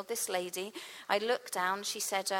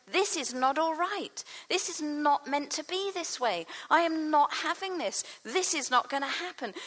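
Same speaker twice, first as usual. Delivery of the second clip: indignant; 5 semitones higher than usual. Acted. Jesus refusing to accept suffering, indignant and firm. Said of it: "moved with compassion or indignation".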